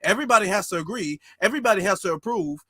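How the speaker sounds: fast, sing-song mimicry of the excuse; mock the officials' stalling line, quick and dismissive; mocking imitation. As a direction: rattle it off like a tired excuse you've heard too often. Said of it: "That's the only time we hear that".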